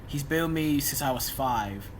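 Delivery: ordinary talk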